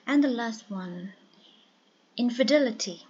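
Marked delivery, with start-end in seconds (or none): 2.2-3.0 infidelity, punched on the third syllable; third-syllable stress. Shown as a demonstration. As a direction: model infidelity with the weight on "del". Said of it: "The third one, dull, is stressed".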